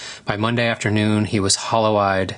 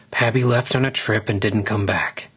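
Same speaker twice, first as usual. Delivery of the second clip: speaking through teeth. Acted. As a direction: mouth barely open, mumbling. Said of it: "still speaking without actually opening his mouth".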